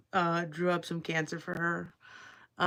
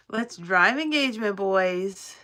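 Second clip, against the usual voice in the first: louder, laughing through the catchphrase; laughing slogan; 4 dB louder, slower than usual. Pretend. Streamer laughing at her own engagement slogan, loud. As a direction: cheer the motto while cracking up.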